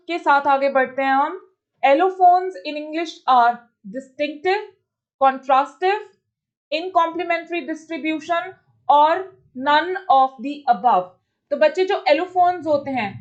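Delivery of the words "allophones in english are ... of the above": slow, careful reading of the options; slow question reading. Acted. Teacher reads the question and its options slowly. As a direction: read each option out for students to follow.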